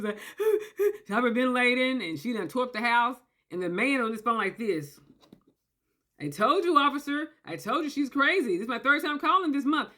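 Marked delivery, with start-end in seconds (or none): 6.2-9.9 calm. Retold or imitated. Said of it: "He's so cool, calm, and collected".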